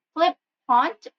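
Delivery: "flippant" with stress on FLIP; stress on first syllable. Shown as a demonstration. Teacher gives an adjective example, stressed FLIP in "flippant". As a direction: split "flippant" slightly, leaning on FLIP. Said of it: "that is the stressed marking".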